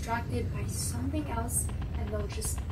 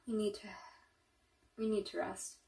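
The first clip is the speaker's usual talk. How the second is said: exhausted sigh; 6 dB quieter than usual. Acted. Exhausted after the long night.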